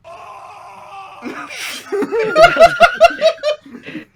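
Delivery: long, high, loud laughing fit; shrieking laugh. Real, not acted. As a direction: break down laughing, near tears. Helpless laughter at own line.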